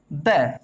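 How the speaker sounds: द with a clipped neutral vowel; short the. Shown as a demonstration. Teacher showing the before queen, short duh. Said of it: "तो इसको हम pronounce करेंगे".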